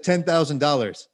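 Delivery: deadpan, no hint of a joke; straight face. Quoting his price to Chad with a straight face. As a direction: state the absurd price as if it's serious. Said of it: "I said with a straight face".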